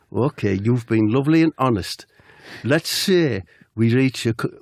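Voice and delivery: manager voice slipping into Geordie; lightly Geordie impression gone astray; unintended Geordie. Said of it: "why is that Geordie?".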